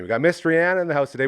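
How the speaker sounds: fast, loud hype for the guest; hyped announcement. Acted. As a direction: announce her like a star.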